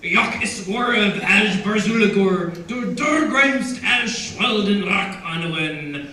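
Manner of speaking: loud, slow, throaty Dwarvish declamation; hoarse Dwarvish proclamation with heavily rolled R's. Shown as a demonstration. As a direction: sink your teeth into meaty Dwarvish, uvular rolled R's. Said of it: "it has a great throaty, meaty feel".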